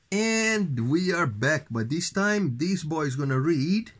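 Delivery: hammed-up host welcoming the audience back; show-host announcer. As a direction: announce the return with playful fanfare. Parent hosts return from a break.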